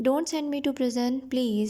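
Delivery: slow story reading. A narrator's reading. Tom pleads with the king.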